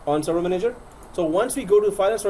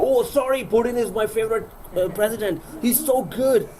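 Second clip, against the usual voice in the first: high, fake-cheerful gushing over Putin; sheepish high-pitched backpedalling; mock apology; 7 semitones higher than usual. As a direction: gush in a high, overdone voice to smooth it over. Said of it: "I go".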